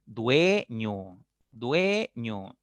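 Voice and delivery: dueño said slowly with the mouth opening on the e; showing open mouth. Shown as a demonstration. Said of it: "¿Ves que tu boca se abre". (dueño con la boca abierta en la e)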